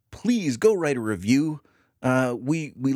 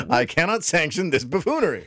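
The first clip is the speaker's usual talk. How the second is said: mock pompous; 4 semitones higher than usual. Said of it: "quoting his habitual phrase".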